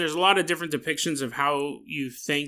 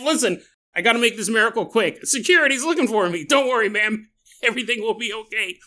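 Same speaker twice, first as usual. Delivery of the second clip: higher, hurried, conspiratorial reassurance; mock urgency; 5 semitones higher than usual. Jesus to a woman while security searches, mock urgent. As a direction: play a miracle-worker short on time.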